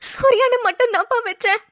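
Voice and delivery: tearful, choked-up answer; crying. Acted. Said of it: "அழாதீங்க please". (அழுதபடி)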